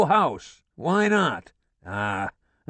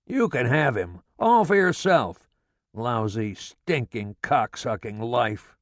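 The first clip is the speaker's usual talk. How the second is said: gloating furious rant, higher and louder; father gloating at his wife about their son; exultant tirade; 6 semitones higher, 4 dB louder than usual. A narrator's reading. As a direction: crow over being proved right. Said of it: "He was exultant".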